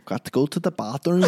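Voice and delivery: overemphasized attempt at an English accent; bad English accent. Shown as a demonstration. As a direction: try an English accent and overdo it badly. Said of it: "You cannot do an English accent".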